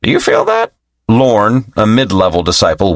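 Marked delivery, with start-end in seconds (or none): 0.0-0.7 whispered. Acted. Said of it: "whispered to his friend Orin".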